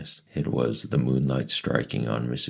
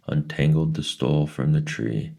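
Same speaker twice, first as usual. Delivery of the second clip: plain reading voice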